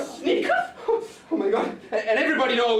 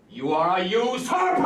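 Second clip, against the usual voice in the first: indignant shout; 3 semitones lower than usual. Acted. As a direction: fling the insult at him. Neighbours quarrel, accusation.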